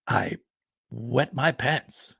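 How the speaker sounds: slow, soft understated punchline; old field marshal's dry slow confession; old man deadpan. Retold or imitated. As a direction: drop it quietly and slowly. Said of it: "the old man ... says".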